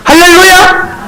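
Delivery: slow, high ringing hallelujah; a high, drawn-out hallelujah; joyful hallelujah. Shown as a demonstration. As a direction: belt out hallelujah to lift the room. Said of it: "얼굴이 확 살아난다니까".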